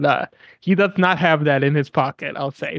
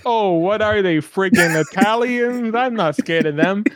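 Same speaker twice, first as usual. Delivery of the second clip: mock Italian-American New York accent; 4 semitones higher than usual. Host imitating the captured foreman, exaggerated New York accent. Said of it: "he's doing that accent".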